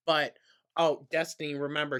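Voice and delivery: loud, high sing-out mimicking the vlogger; mocking imitation. Mimicking vlogger instructing Destiny, loud high mockery.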